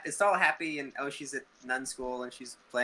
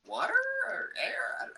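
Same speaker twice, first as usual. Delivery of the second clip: mock high voice; slower than usual. Mocking the prayer name.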